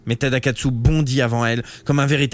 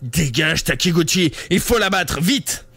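furious; 5 semitones higher, slower than usual. Acted. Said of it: "Tadakatsu redoubla de fureur".

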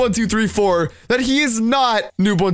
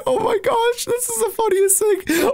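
high giggly disbelief; 13 semitones higher than usual. Real, not acted. Laughing at spammed messages.

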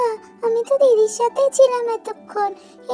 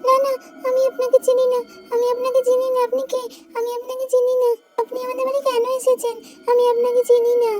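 put-on quick, scared child protesting; frightened refusal; 4 semitones higher, faster than usual. Child refusing the strange woman who grabs her, frightened. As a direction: push the stranger away, panicky.

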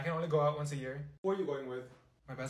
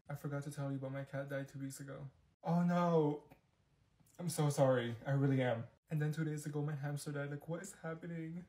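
quiet sad news; 3 semitones lower, 5 dB quieter than usual. Acted.

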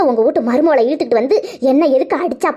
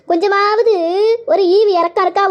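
indignant reproach; 5 semitones higher than usual. Acted. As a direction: throw the question at her in outrage. Reproaching sister loudly.

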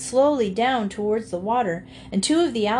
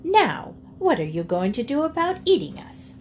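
sharp, higher, pointed question; challenging demand; 5 semitones higher than usual. Acted. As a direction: pin him down with a pointed question. Hen challenging the alligators.

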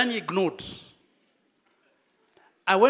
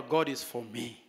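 quiet affirmation; 8 semitones lower, 7 dB quieter than usual. Shown as a demonstration. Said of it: "Tell your neighbor".

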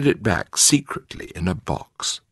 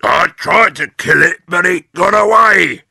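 higher, loud mock-alarmed old man; Mister Twit; 10 semitones higher, 8 dB louder than usual. A narrator's reading. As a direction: fake alarm to frighten her. Husband scaring his wife.

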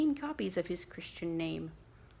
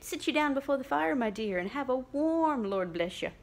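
quick, louder, fond mother; lightly voiced bustling mother; fussing mother; 4 semitones higher, 5 dB louder than usual. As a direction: hurry her to the fire. Mother fussing over daughter.

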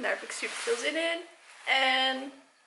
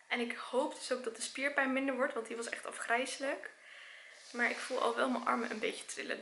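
tired and softer after exercise; after a workout; 6 dB quieter than usual. Real, not acted. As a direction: speak worn out from bootcamp. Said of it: "zoals jullie kunnen zien heb ik net gesport".

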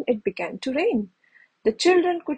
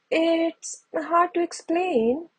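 slow, smiling and higher; with a smile; 6 semitones higher, slower than usual. A narrator's reading. Chip answering Will's father, smiling. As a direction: say it slowly with a knowing smile. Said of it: "said Chip with a smile".

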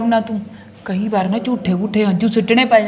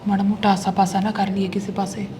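hushed; 7 dB quieter than usual. Acted. Wife whispers secret plan.

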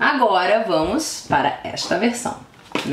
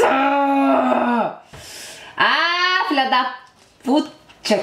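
fan frenzy; 8 semitones higher, much slower than usual. Real, not acted. Fan overwhelmed by the idol's photo, swearing in a high delighted voice.

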